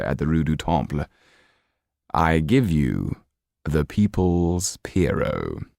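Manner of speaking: slow, grand presentation; the Count announcing. Acted. The Count presenting a show to the Marquis's guests, slow and grand. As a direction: unveil the show with ceremony, slowly.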